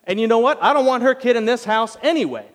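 jealous Sarah. Retold or imitated. Sarah griping to Abraham about Hagar, loud and high. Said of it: "And she's like".

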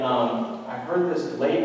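ordinary delivery

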